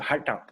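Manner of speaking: "hatha" run together as in India; said quickly. Shown as a demonstration. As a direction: toss off "hatha" quickly, retroflex t. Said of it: "lo dice muy rápido".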